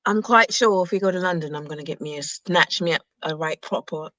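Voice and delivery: put-on low, playful British accent. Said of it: "I love the way they speak".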